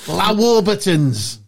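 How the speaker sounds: high, squealing excited mimicry; mock excited. Mate imitating friend finding British snacks in France, high and excited. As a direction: squeal over the snacks like a kid.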